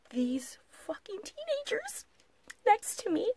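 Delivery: high breathy whisper, barely voiced. Real, not acted. Whispering to viewers about the teenagers beside her. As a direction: lean in and whisper the gossip.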